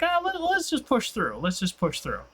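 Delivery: imitating brother.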